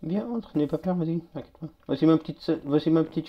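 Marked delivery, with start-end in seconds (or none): 0.0-1.7 soft, reassuring invitation that tails away quieter; gentle coaxing. Pretend. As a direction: softly coax a shy guest inside. Coaxing a guest into the base.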